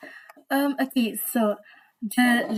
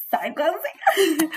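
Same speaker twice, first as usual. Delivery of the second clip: higher, slow, stretched-out teasing delivery; playful sly drawl; 5 semitones higher, much slower than usual. Pretend. Teller acting out sneaking glances at the stranger, slow sly drawl. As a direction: draw it out like a sneaky sideways look.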